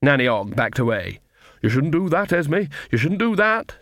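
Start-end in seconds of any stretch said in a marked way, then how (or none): 1.6-3.8 quavering. A narrator's reading. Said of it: "she quavered".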